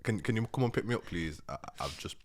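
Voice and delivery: small, faltering phone plea to mum; sheepish plea. Retold or imitated. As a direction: trail down into an embarrassed confession.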